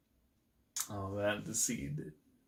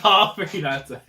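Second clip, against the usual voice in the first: excited; 6 semitones higher, 6 dB louder than usual. Real, not acted. Fond cry at character.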